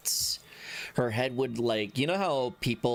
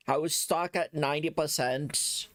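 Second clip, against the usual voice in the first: lightly put-on JFK Boston accent; a passing stab at a JFK Boston accent; hint of a JFK accent, half-hearted; 4 semitones higher than usual. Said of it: "to J F K accent".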